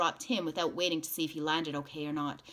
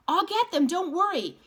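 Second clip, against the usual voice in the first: loud, high urgent promise; urgent call; 13 semitones higher, 8 dB louder than usual. Acted. Man promising the mother he'll fetch the kids, loud and urgent. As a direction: shout it as you start to run.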